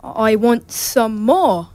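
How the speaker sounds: slow, drawn-out British plea; British accent as Oliver. Acted. Boy actor giving Oliver's famous line to the interviewer, British accent. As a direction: beg politely in a British accent. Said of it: "can I hear a little Oliver".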